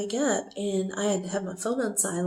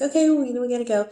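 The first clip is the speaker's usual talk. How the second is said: higher, louder, brisk cutoff; hurried wrap-up; 4 semitones higher, 4 dB louder, much faster than usual. Retold or imitated. Brian ending the video call in a hurry. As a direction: rush to end the call. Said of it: "and then Brian's like".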